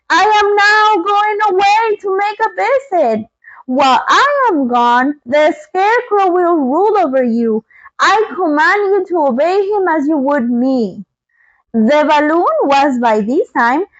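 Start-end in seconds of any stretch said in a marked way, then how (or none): 0.1-11.1 lightly voiced wizard announcing departure; loud commanding Oz. Oz addressing the people, a hint of grand command. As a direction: proclaim it to the crowd. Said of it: "in a loud voice".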